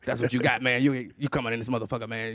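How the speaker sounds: dog voice. Retold or imitated. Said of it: "They all talk to me like that".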